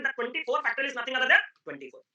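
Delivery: slow, spelled-out emphasis; slow emphatic. Real, not acted. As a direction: drive the point home slowly. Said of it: "ठीक है sir, चिल्लाओ मत". (धीमे, ज़ोर देकर)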